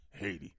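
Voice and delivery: Haiti as a two-syllable "HAY-dee"; anglicized pronunciation. Shown as a demonstration. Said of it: "It's not Haiti".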